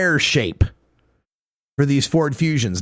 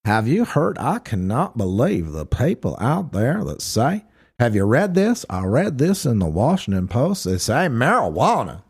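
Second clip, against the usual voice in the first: Jeff Sessions impression; 4 semitones lower than usual. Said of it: "you mix them together and you get a little".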